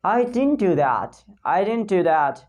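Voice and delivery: "didn't" said as dinnt; "didn't" blended smoothly into "do"; dropped D. Shown as a demonstration. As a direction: drop the d in "didn't". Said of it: "Just remove the D sound".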